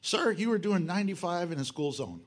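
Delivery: a light mock officer pulling a speeder over; speeder's story, a lightly voiced officer; police officer voice. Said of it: "I get pulled over".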